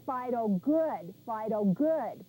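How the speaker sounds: slow, gentle praise; praising the dog. Shown as a demonstration. Trainer praising the puppy with a toy, slow and gentle. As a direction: reward the puppy with a slow good. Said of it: "put it in your dog's mouth and say".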